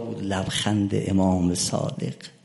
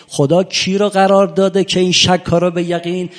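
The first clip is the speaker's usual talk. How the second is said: raised, higher question pressing the point with قرار stressed; pointed challenge; 7 semitones higher, 9 dB louder than usual. Retold or imitated. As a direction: push the question hard at the opponent. (پرسش کوبنده با صدای بلندتر)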